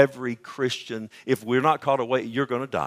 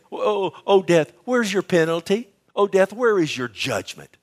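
higher-pitched taunt, imitating Paul; mocking; 9 semitones higher, 4 dB louder than usual. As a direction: make fun of a beaten foe, pitched up. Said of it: "he's making fun of death. He's saying".

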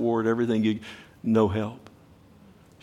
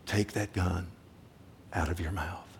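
quiet firm command; 4 semitones lower, 10 dB quieter than usual. Retold or imitated. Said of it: "I said".

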